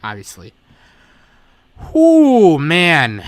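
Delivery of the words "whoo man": loud, high whoo falling away into man; real exhausted relief, loud exhale; weary whoop. Real, not acted. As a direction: let out a big end-of-marathon whoo. Relieved exhaustion as long project ends.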